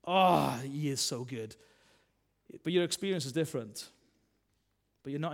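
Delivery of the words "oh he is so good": blissful worshipper. Retold or imitated. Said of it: "and they're like".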